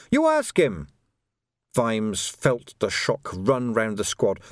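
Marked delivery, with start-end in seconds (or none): 0.1-0.9 high, frantic blame-shifting; acted panic, pitch leaping up; panicked accusation. A narrator's reading. Quirk accuses the rookie.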